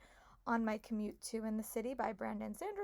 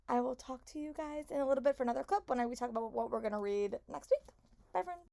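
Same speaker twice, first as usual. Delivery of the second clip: hoarse, worn-out voice from laryngitis. Real, not acted. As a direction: talk through a hoarse throat. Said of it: "Sorry for my such hoarse voice".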